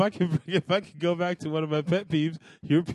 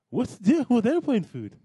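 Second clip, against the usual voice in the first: higher-pitched crude comedian impression; Jerry Seinfeld; 5 semitones higher than usual. Actor character demonstrates stand-up bit, Jerry Seinfeld impression. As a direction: mimic a stand-up comic while still in character. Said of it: "Here's an impression of Jerry Seinfeld".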